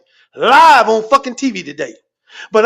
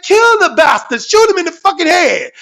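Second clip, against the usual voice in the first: higher-pitched, mock-urgent shout; raised, exasperated command in a retold story; retold urgent yell; 6 semitones higher, 3 dB louder than usual. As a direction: yell it like you're egging on the shooter. Retells urging police to shoot.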